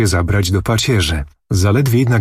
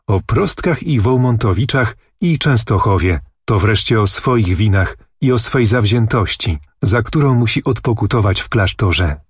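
plain reading voice

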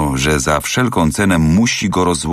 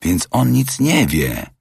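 higher, drawn-out realization; keen, higher-pitched, slow reaction; eager interjection; 7 semitones higher, slower than usual. A narrator's reading. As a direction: seize on it with mild eagerness. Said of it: "pochwycił żywo Fix".

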